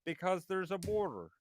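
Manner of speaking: lightly voiced stern lecturer; a hint of a stern Canadian professor; Jordan Peterson impression. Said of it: "you do a Jordan Peterson impression".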